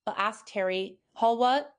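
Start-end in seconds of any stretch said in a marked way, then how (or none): 1.1-1.7 booming Hagrid outburst; thundering. Acted. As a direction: thunder the question. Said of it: "Hagrid thundered".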